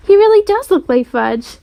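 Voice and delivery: high-pitched marvelling; amazed mother. A narrator's reading. Mother to father watching TV commercial, amazed.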